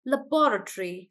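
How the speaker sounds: laboratory as luh-BOR-uh-tree; British stress on BO. Shown as a demonstration. Teacher echoing the dictionary, laboratory stressed on bo. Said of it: "they are stressing on bo".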